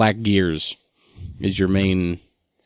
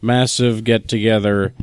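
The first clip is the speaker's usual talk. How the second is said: pompous announcer. Pretend. Mock grand announcement.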